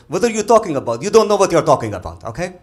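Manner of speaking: put-on angry accented shout at the vet; arguing. Arab guy yelling back at the vet, indignant shout. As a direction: shout him down, outraged.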